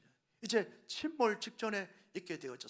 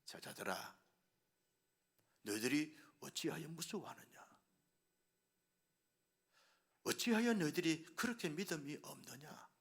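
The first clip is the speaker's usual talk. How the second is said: quiet rebuke; 4 dB quieter than usual. A narrator's reading. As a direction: scold them gently under the breath. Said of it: "책망하시고 질책하십니다".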